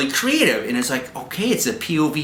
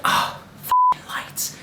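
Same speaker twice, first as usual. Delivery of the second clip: mock girly annoyance; 3 dB quieter, slower than usual. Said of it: "she's like".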